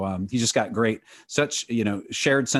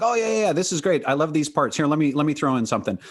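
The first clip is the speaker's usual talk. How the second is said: higher, quick, imitating an eager collaborator; enthusiastic quoted reaction; 5 semitones higher, faster than usual. Retelling a songwriting partner's response to the theme song, eagerly. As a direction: act out his delighted yes, pitched up.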